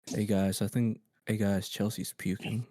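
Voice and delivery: understated, slowing to a soft finish; calm announcement. Retold or imitated. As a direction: report it with no alarm. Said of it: "he said it all calmly".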